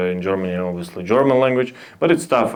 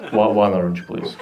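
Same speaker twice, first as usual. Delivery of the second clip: mock sad; 5 semitones lower than usual. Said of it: "That was a sad one".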